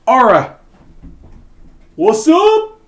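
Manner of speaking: high squeaky call; rat voice. Acted. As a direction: shout it like a cheeky rat. GM voices monster calling out.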